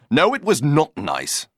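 gasping for breath. Acted. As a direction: speak while catching breath. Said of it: "gasped Cyril, trying to get back his breath".

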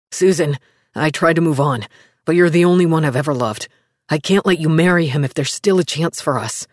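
desperate lover's plea; lightly voiced man begging; pleading man.

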